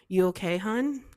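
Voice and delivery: mock British greeting. Quoting Love Island greeting.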